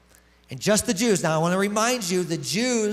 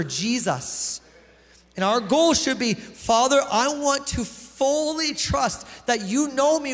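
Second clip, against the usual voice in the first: rally the congregation toward trust in God; fervent preaching. Acted. Preacher builds to exhortation.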